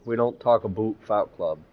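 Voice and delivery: put-on lightly done Canadian accent, aboot. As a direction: say it like a Canadian, oot vowels. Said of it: "In my Canadian voice".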